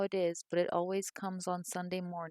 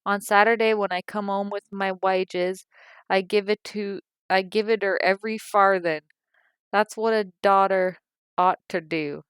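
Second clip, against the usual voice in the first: indignant tirade; 2 semitones higher, 8 dB louder than usual. A narrator's reading. Mother preaching about how a daughter should behave, loud and self-righteous. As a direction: lecture her like a wronged mother.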